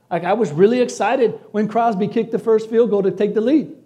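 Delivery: ordinary talk, nothing marked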